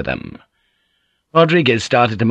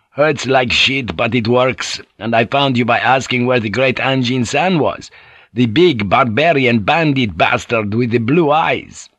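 hearty, slightly raised character voice; boisterous Portuguese sailor; 3 semitones higher than usual. Acted. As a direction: trade friendly insults with an old shipmate.

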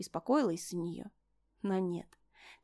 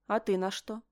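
dispassionate. Acted. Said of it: "бесстрастно спросила".

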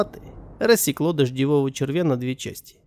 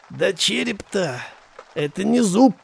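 angry; 5 semitones higher than usual. Acted. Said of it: "злобно ответил Селиван".

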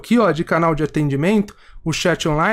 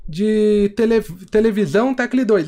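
phone menu voice; 3 semitones higher than usual. Retold or imitated. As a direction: read it like an automated phone menu. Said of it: "é um robô que conversa ali".

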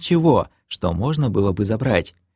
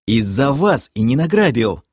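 mild snap back; 3 semitones higher than usual. Acted. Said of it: "огрызнулся я".

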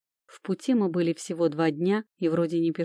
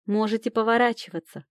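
крикнула; 4 semitones higher than usual. Acted. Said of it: "крикнула мужчинам".

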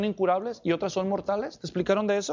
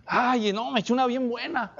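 real chuckle through the words; amused, caught out by the slip; laughing at himself. Real, not acted. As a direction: laugh at your own slip.

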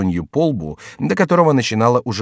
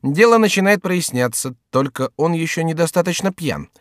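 high, lively inner voice; scheming thought; 8 semitones higher than usual. Acted. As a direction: think aloud in a raised pitch. Chicot thinks to himself.

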